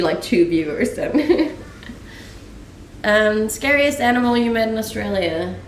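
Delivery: usual speaking voice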